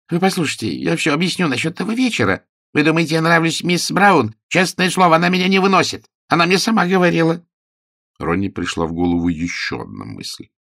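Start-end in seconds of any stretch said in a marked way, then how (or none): 0.1-7.4 higher voice, pleading and fast in places; a nervous man talking his way out; high-pitched anxious pleading from inside a wardrobe; frightened detective voice. A narrator's reading.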